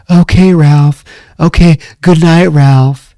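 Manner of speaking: lightly imitated sweet goodnight. Nancy sending Ralph off to bed, sweetly placating. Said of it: "she's so sweet to him".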